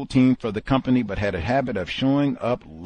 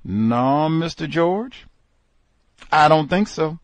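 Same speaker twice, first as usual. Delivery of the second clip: firm refusal; 6 semitones higher, 5 dB louder than usual. Retold or imitated. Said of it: "was his response".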